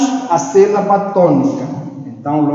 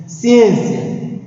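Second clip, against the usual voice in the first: "Ciência" with ÊN lifted higher; stressed syllable; 5 semitones higher than usual. Shown as a demonstration. Teacher reminding pupils of the tonic syllable, ÊN in "Ciência" stressed. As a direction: say "Ciência" punching the ÊN. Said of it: "O em é a sílaba tônica".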